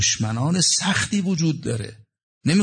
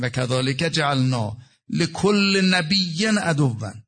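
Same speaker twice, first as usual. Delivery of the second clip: 1 Quran recitation; much slower than usual. Real, not acted.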